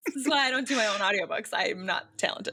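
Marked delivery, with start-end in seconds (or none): 0.1-1.5 quick, higher, through real laughter; self-deprecating, still laughing. Real, not acted. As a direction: rush it out with a laugh. Joking about her lack of talent.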